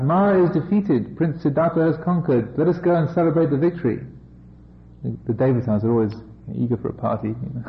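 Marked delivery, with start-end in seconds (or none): 0.0-4.0 excited gods crying out. Acted. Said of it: "cried out".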